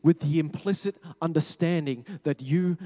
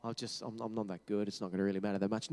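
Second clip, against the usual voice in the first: mock self-deprecation, softer and lower, ending in a rush; self-deprecating; 5 semitones lower, 5 dB quieter, faster than usual. Imagining Jesus putting himself down, mock self-deprecating. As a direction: put yourself down half under your breath, imitating false modesty. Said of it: "if he just self-deprecated himself and said".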